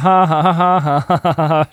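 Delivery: gespieltes Schadenfreude-Lachen; hämisches Lachen. Retold or imitated. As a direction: lautere gehässige Lacher, dann spöttisch. (Christine lacht Barbie aus, gespielt schadenfroh)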